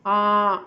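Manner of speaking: a loud stretched nasal आ. Shown as a demonstration. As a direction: hold the nasal vowel आ. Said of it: "इसमें किसकी sound आई".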